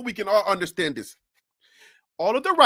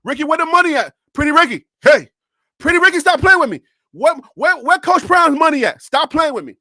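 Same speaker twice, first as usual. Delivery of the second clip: mock demanding; 3 dB louder than usual. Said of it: "I'm coming with the camera".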